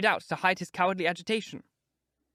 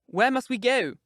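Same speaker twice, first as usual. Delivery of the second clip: frightened question; 6 semitones higher, 5 dB louder than usual. A narrator's reading. Frightened Catherine asks.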